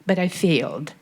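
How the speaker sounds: loud, pressing, near breaking; emotional plea. Real, not acted. Audience member pleads with Vladimir, loud and emotional. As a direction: push the question out loud, upset. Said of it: "I'm a little bit emotional".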